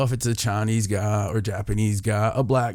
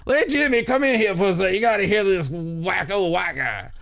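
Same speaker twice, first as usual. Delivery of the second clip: imitating a guy hollering for a friend; calling out to a friend; 8 semitones higher than usual. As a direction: yell for your buddy to come hear this. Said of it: "It's like".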